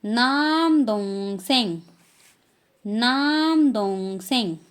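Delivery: "नाम दोंग सेंग" slow, clear; teacher modelling Korean term; Korean word. Shown as a demonstration. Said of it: "और younger brother".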